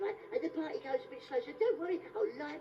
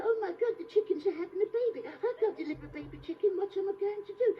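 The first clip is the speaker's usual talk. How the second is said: panicking owner; 4 semitones higher than usual. Retold or imitated. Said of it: "And you go".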